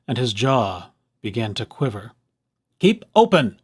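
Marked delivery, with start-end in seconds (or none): 2.8-3.6 yell. A narrator's reading. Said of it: "yelled Doctor DeSoto".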